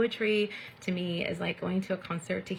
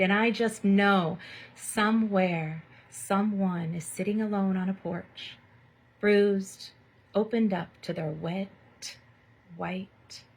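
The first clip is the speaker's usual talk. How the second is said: slow, hushed, sensual poem reading with long pauses; poetry reading. Acted. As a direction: savour each image like a spoken-word poet. Reads a sensual poem aloud.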